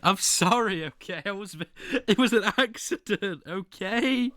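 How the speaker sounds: high-pitched, defensive pleading; mock apology. Streamer excuses an outburst to chat, mock apology. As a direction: protest innocence in a hammed-up plea.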